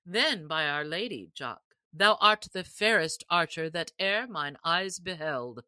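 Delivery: the sheriff grandly crowning the winner; sheriff's voice. Acted. Sheriff addressing the stranger archer, lightly voiced and proud.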